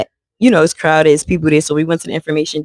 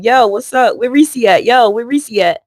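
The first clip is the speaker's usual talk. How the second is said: mock demanding; 6 semitones higher than usual. Auntie kicking the sleeping man.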